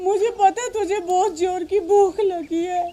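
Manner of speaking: sobbing through the words. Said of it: "आप रो मत".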